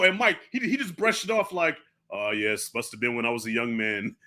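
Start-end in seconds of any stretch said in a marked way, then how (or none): 2.1-4.1 dismissive villain. Retold or imitated. Villain brushing off Conan's accusation.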